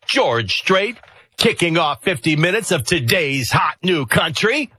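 lilting country DJ delivery; country radio voice. Acted. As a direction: sell it like a country station DJ. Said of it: "You go into your country radio voice".

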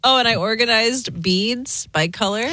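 whispered through a giggle; laughing whisper. Real, not acted. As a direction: giggle it out under your breath. Laughing while admitting it.

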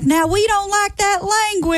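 a prissy scolding grandma; prim old lady. Retold or imitated. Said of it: "She's like".

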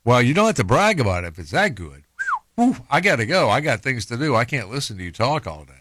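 mild sarcastic jab at a stranger who stayed silent; mocking. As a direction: tease them as you walk away, lightly. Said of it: "I'm just mock the crap out of 'em".

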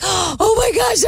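high, slow, gushing exclamation; a drawn-out, overjoyed "oh my gosh"; mock excitement. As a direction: ham up the delight over a gift. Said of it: "And I'm like, gasps".

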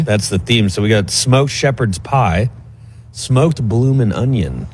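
hushed golf announcer voice. Acted. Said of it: "why are we using that voice today".

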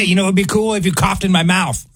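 laughing sarcastic offer; mock eager, through a laugh. Sarcastic joke.

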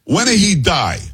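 high-pitched imitated Italian woman's accent; thick Italian accent. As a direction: demand it in a put-on Italian accent. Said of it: "the thick, um, Italian accent".

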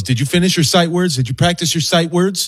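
mild imitation of a pushy mom; stern quizzing wife. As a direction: quiz the kid like an impatient parent. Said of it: "why does your wife have that tone".

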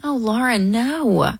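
real sympathy, pitch lifted and sliding down; sympathetic protest. Real, not acted. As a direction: console her, gently refusing the self-blame. Host consoles the self-blaming caller.

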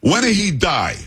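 imitated bold Italian woman, high-pitched; Italian accent. Italian woman asking anchor about his grandfather, mock Italian accent. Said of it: "thick, uh, um, Italian accent".

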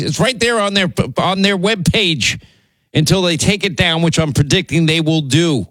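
getting fired up; worked up. Real, not acted. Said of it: "I'm getting worked up".

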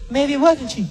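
resigned woman. Retold or imitated. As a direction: let it go, doubtful. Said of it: "You know what the woman said?".

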